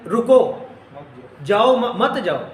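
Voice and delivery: رکو set apart before مت جاؤ; pause after رکو. Shown as a demonstration. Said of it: "اس میں کہا یہ جا رہا تھا".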